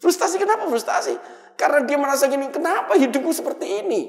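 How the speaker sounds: high, loud preaching climax; preaching at full force. Acted. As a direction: drive the questions home to the congregation.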